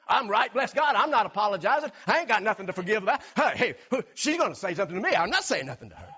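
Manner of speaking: hammed-up defiant grumbling, quickening; mock stubborn anger. Preacher mimicking an angry spouse refusing to forgive, mock defiance. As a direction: play someone digging in, refusing to apologize. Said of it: "keep that thought of being angry".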